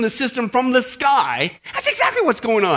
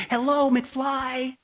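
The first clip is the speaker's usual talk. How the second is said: mock exasperated speaker; 3 semitones higher, 4 dB quieter, much slower than usual. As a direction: tap on their head with a mocking hello. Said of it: "Let me give you the Crone translation".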